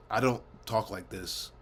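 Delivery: slow, deliberate enunciation; enunciating. Shown as a demonstration. Vlogger showing how they talk on camera, enunciating. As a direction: spell it out slowly, word by careful word. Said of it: "I'm obviously going to be enunciating".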